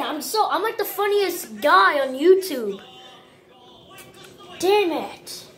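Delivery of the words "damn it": laughing damn it; breaking into laughter; stifled giggles. Real, not acted. Laughs and loses again.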